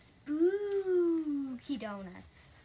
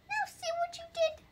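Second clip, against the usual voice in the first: higher scolding ghost line, NOW leaned on; 5 dB louder than usual. Acted. Ghost blaming the reader for the scared cat, higher scold. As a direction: lift up and chide the reader.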